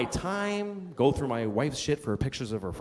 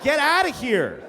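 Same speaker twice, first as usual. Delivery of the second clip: mock pleading dad; 6 semitones higher than usual.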